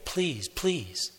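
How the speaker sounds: lightly voiced pleading little girl; a touch of a child begging the priest; mild child's begging. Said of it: "And she's begging him".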